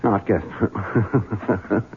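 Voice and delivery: put-on slurred, very slow drunk talk. Drunk husband pleading with the maid, slurred. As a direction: drag it out like a drunk.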